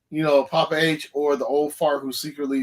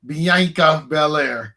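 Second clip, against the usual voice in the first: slow, louder ring announcer drawl; William Regal voice; 5 dB louder, much slower than usual. Retold or imitated. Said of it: "in my William Regal voice".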